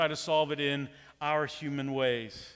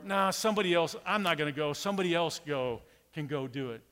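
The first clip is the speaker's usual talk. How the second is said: lazy brush-off. Retold or imitated. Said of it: "we drag our feet and say".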